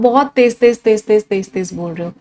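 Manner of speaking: lightly demonstrated jabbering; rapid jabbering. Shown as a demonstration. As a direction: rattle off the repetition. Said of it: "जैबर करना".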